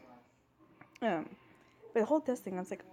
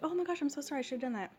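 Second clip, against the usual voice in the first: gushing apology, imitated; 6 semitones higher than usual. Coworker apologizing for not telling her, mocking imitation. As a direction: mimic a coworker falling over herself apologizing.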